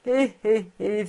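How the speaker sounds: put-on mild read-out old man's chuckle; acted chuckle. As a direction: voice a light "hé, hé" laugh. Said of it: "Il riait".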